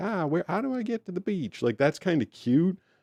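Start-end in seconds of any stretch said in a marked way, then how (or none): 0.0-1.6 higher, put-on Southern girl accent. Speaker discussing accents imitates a Southern girl asking for directions; Southern girl accent. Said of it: "a Southern girl walks up and is like".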